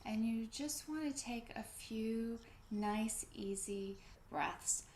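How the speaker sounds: calm, unhurried breathing-class guidance; guided breathing. Real, not acted. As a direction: gently lead them into easy breaths, with pauses. Leads a breathing meditation.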